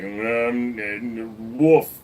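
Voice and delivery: lightly mimicked dog huffing into a woof; imitating dog. Owner teasing his dog's breathing, lightly imitated dog noises. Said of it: "You always breathe like you wanna say something".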